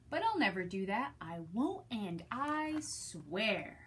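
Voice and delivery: hammed-up greedy dog, guarding his pile; possessive Pig. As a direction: Pig the pug refusing to share with Trevor. Pig's outburst voiced to children.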